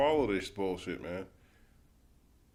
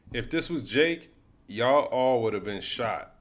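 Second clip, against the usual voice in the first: angry rant; 3 semitones higher, 7 dB louder than usual. Real, not acted. Angry rant over video.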